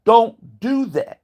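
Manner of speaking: slow, drawn-out mock warning; lightly voiced advisor leaning in to caution; a hint of a slow warning in his ear; advisor's warning. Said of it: "telling him in his fucking ear".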